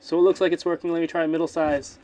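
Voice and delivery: projected, forceful demo talk; loud test voice. Shown as a demonstration. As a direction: talk loudly into the mic to test it. Demonstrating mic volume after chant.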